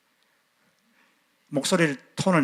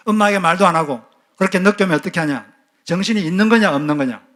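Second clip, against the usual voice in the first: angry mother; 3 semitones higher, 4 dB louder than usual. Retold or imitated. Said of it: "엄마가 화가 났어요".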